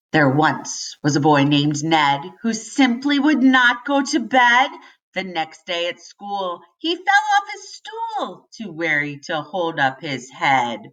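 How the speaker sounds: bouncy, playful limerick reading; limerick read aloud. Acted. Teacher reading a silly limerick to children, bouncy. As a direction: lilt through the rhyme like a nursery poem.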